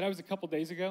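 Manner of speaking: lightly voiced matter-of-fact kid; casual child's reply. Dad retelling his son's answer, casual and soft. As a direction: imitate an unbothered little boy, quietly.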